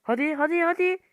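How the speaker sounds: will the ball in; excited urging. Real, not acted. Gamer urging his shot toward the goal, excited.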